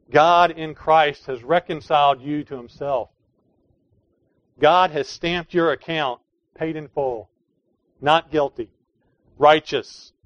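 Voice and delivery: rising to a loud cry on righteous; building preaching. Real, not acted.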